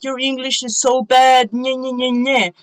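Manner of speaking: whiny mock taunt ending in nye-nye; mocking imitation. Imitating commenters putting accented speakers down, mocking. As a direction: mimic a petty critic's jeer.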